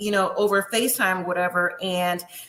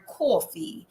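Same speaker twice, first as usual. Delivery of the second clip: attempted New York Italian accent, drawn out slowly; imitated New York Italian-American pronunciation; 4 semitones lower, 4 dB quieter, slower than usual. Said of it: "in her New York Italian accent".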